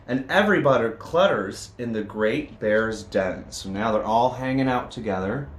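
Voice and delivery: lively read-aloud with bouncy rhythm; storybook reading. A narrator's reading. Reading a picture book to children, lively storytelling. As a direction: read it to the kids with a sing-song lilt.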